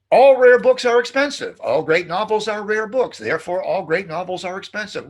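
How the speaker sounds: loud, high opening that eases off; declaimed example. Shown as a demonstration. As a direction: announce the syllogism like a grand proclamation. Example argument declaimed before mock outrage.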